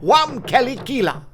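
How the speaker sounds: the chief welcoming a stranger with Wamkelikila; Zulu greeting. Shown as a demonstration. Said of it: "Or as we say".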